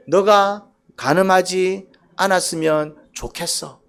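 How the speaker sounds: slow, tender plea; gentle wish. Shown as a demonstration. God to his people, slow and tender. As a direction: say it slowly, hoping for them. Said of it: "미완료는 어떤".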